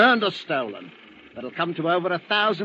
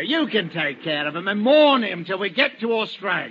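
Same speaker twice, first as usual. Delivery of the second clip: gloating laugh; 8 semitones higher than usual. Acted. Finch to the convicts in the hold, gloating laughter.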